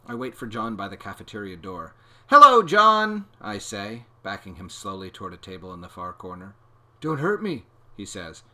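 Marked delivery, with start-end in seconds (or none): 2.3-3.2 high, loud, drawn-out hello; overbearing sing-song greeting. A narrator's reading. Menacing greeting, backing him up. 7.0-7.6 high, loud frightened plea; frightened little boy pleading; scared plea. A narrator's reading.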